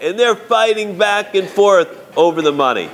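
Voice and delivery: ordinary talk, nothing marked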